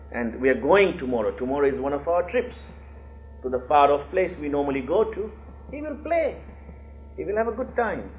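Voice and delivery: imitated coaxing sales pitch; selling the idea. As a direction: talk a father into an outing. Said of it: "trying to sell the idea".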